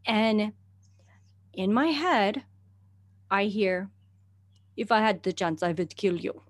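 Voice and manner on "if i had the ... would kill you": put-on Russian accent. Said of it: "in, like, a Russian accent".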